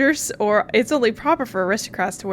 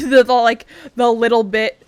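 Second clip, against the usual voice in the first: laughing; 7 dB louder than usual. Real, not acted. Laughing mid-sentence while rambling.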